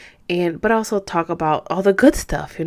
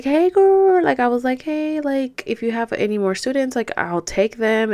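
asking for students; 5 semitones higher than usual. Retold or imitated. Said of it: "So I was like".

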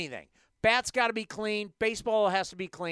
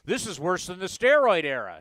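mock quote; 5 dB louder than usual. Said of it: "honestly tried to say".

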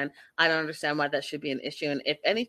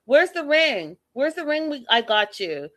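higher, louder mock of a pompous man; 6 semitones higher, 4 dB louder than usual. Host mocking Ed demanding his ring, high and loud. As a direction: parody him demanding the ring back. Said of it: "Who talks like that?".

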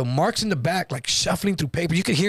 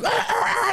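very high freak-out wail; high mock shriek; imitated panicked scream. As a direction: mimic someone screaming in panic. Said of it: "starts freaking out".

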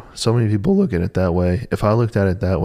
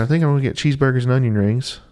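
lightly voiced coworker, pitched higher; imitated coworker; 5 semitones higher, faster than usual. Coworker answering about her lunch plans, imitated.

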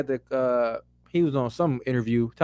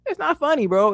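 angry; 12 semitones higher than usual. Real, not acted. Heated argument, repeated retort.

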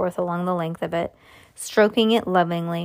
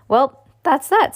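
raised, louder, drawn-out cheer; brightly; 6 semitones higher, 6 dB louder, slower than usual. A narrator's reading. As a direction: put a bright face on it, slow and loud. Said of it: "said Grandpa Joe brightly".

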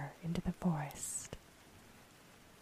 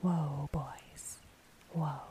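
hushed whisper; much slower than usual. A narrator's reading. Unseen rider calming horses in the mist, hushed whisper. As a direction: whisper it slowly, as if settling horses. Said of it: "a hushed voice whispered".

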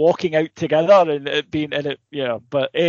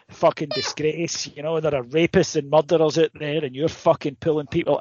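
demented taxpayer. Retold or imitated. Friend ranting at the policeman about rapists and murderers, mock outrage. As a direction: mildly imitate a furious citizen lecturing a cop. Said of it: "goes into his demented taxpayer".

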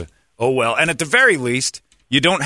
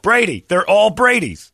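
comic exasperation; 7 semitones higher, 4 dB louder, slower than usual. Acted. Exasperated punchline after parody.

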